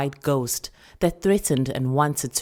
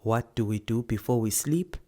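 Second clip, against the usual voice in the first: whispering grandmother; 3 semitones lower than usual. Acted. Grandmother asking the child about bedtime prayers. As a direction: ask gently in a whisper. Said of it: "Nkgonopeni would say".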